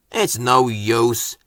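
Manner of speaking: grumbling. Acted. Driver grumbling at the sheep, slow and weary. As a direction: give up, grumbling. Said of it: "grumbled the driver".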